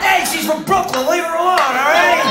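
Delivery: loud, high, slow playful warning; a Jersey guy playfully guarding a Brooklyn girl; mock tough defense. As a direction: stick up for her, hammed-up. Mock defending guest to crowd.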